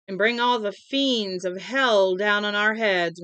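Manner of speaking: slow, loud doom-laden warning; mock cry. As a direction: proclaim it like a prophet of doom. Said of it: "Missus Carmody cried".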